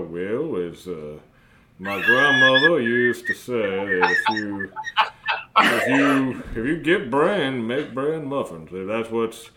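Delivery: GM voicing a robot head in a light Minnesota accent; folksy Minnesota lilt on the robot's lines; broken robot mouth rambling in a Minnesota accent. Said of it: "this is a Minnesota accent".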